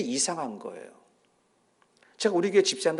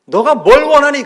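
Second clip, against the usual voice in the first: raised, higher voicing of Jesus; Jesus asking; 9 semitones higher, 14 dB louder than usual. Jesus asks the disciples, raised and high. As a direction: call out the question as Jesus. Jesus voiced in retold scripture.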